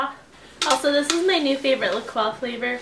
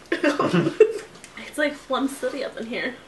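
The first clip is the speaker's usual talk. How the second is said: laughing; much slower than usual. Real, not acted. Laughing while speaking.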